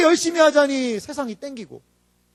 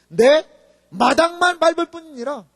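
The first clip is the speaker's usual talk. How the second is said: prophet's proclamation; 3 semitones higher, 6 dB louder than usual. Retold or imitated. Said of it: "이사야 선지자가요, 그래서 이렇게 해요".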